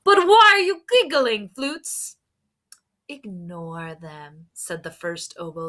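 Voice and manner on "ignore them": soft, slow confiding murmur; quiet conspiratorial aside; hushed aside. Acted. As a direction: lean in and say it low. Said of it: "leaning in close".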